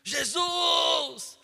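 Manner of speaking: loud, high drawn-out shout; shouted cry. Acted. Blind man calls to Jesus passing by, shouting. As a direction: yell it out to be heard over a crowd. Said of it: "Ele se levanta e começa a gritar".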